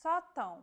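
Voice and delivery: sótão with the stress on the open ó and a nasal ão at the end; Portuguese sótão, stressed open ó; acute plus tilde. Shown as a demonstration. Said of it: "like in this case".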